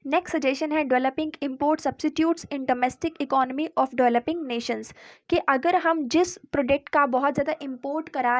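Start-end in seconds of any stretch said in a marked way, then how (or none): 0.9-4.9 slow, even dictation of the heading; dictating pace for notes; slow heading read. Acted. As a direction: read it out slowly so students can note it down. Reads the suggestion heading slowly.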